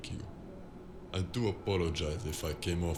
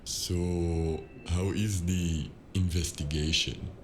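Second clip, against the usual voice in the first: louder, brisk change of subject; abrupt louder question; 4 dB louder than usual. Acted. Assistant pressing the detective for news, suddenly louder. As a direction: cut in loudly to move things along.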